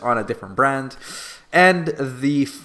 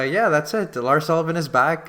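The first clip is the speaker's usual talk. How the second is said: sarcastic; 3 semitones higher than usual. Real, not acted. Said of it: "I'm being sarcastic".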